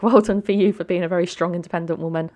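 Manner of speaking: lightly acted praise with laughter around it; congratulating. The speaker praising Brandy for her strength, amused congratulation. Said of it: "her congratulation".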